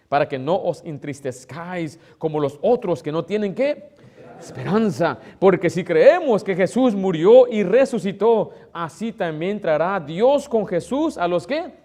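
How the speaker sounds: loud, slow, rising scripture proclamation; preaching at full force. Acted. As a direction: build the verse into a slow, loud climax. Lectura bíblica predicada con fuerza. (proclamación bíblica fuerte y lenta)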